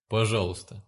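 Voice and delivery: a soft, gentle please; too soft please. Acted. Patient adding please to his rude order, too softly. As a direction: soften it way too much. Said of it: "Получилось как-то слишком мягко".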